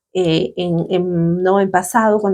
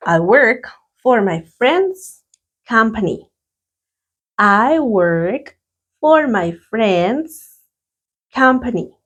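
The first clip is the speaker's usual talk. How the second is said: slow, careful English sentence; slow teacher dictation; slow dictation reading; much slower than usual. Shown as a demonstration. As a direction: read it slowly for students to repeat. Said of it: "Number one".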